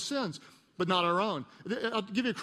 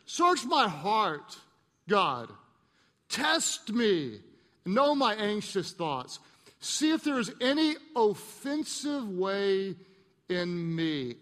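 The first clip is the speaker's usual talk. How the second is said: slow earnest prayer; much slower than usual. Acted. Praying the prayer slowly.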